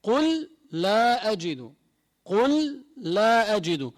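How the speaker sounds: قل لا أجد slow, the two lams joined into one doubled lam; merged double lam. Shown as a demonstration. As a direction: join the lam of قل into لا. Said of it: "ندغمهم". (إدغام اللامين في قل لا أجد)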